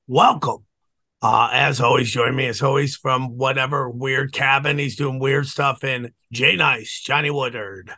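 lost voice, hoarse and strained. Real, not acted. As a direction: talk through a sick, hoarse throat. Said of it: "I lost my voice".

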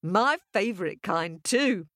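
high-pitched amazed squeal; farmer's wife squealing in wonder, high; delighted shriek. Acted. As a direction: shriek with happy astonishment. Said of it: "The farmer's wife shrieked".

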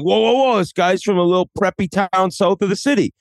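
imitating a local calling someone out; mock objection. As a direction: cut in with a playful, high-pitched objection. Mimics co-host objecting to him.

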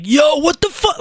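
high-pitched mock yell, no real volume; retold yelling. Friend freaking out in the hotel room, mock yelling. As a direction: act out your friend freaking out, pitch jumping up. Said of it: "he started yelling".

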